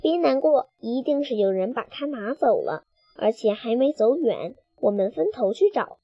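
softly comforting. Acted. Carmen softly comforting the upset chick. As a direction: soothe a sad friend quietly. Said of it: "卡门轻声安慰道".

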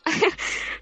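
a short breathless laugh she can't hold back; stifled giggle, high and airless; laughing at the face on the iPad; breathy giggle. Real, not acted. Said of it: "顿时就想笑".

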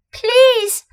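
high, frightened stammer. A narrator's reading. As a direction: stammer it out in fear. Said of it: "stammered Edmund".

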